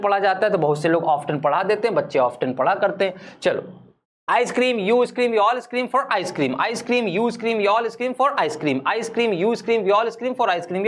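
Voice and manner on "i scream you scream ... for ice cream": very slow, careful tongue twister recital; slow demo of a tongue twister. Shown as a demonstration. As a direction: say each word slowly for students to copy. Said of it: "ये five बार आप बोल लीजिए".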